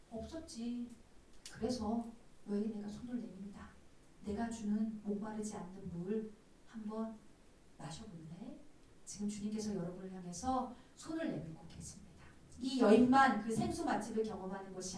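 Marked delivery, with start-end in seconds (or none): 0.1-8.6 hushed invitation in God's voice; the Lord inviting. Retold or imitated. The Lord offers living water. (주님처럼 낮고 조용히 권하듯)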